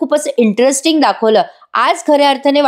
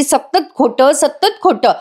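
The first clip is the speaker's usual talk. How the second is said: mildly irritated, higher-pitched grumble; retold irritation, pitch raised; irritated grumbling; 5 semitones higher, slower than usual. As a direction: imitate a fed-up wife's complaint. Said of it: "चिडचिड चिडचिड करत असते ती".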